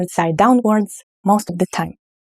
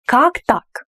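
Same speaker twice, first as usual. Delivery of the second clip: surprised; 5 semitones higher than usual. Shown as a demonstration. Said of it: "You are surprised".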